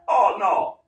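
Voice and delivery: loud, fast threatening ruler; mock threat. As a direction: snap a threat back at the prisoner. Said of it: "you would think like".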